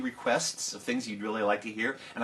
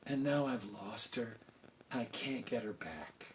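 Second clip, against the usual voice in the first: father full of regret; softly sad; grieving old king; 5 dB quieter than usual. Acted.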